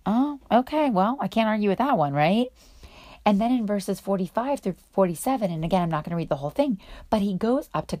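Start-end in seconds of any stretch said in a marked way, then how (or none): 0.0-2.5 mock surprised. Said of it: "And he's like".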